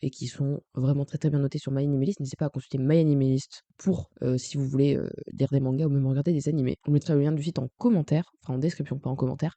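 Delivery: groggy morning vocal fry; just-woke-up croaky voice. Real, not acted. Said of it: "j'ai ma voix du matin".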